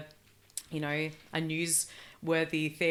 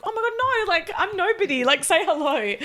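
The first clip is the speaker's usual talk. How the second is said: high excited gush; 11 semitones higher, 9 dB louder than usual. Retold or imitated. Telling fans too scared to say hello, high excited gush. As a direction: squeal it, higher and louder. Retold gushing reply to fans.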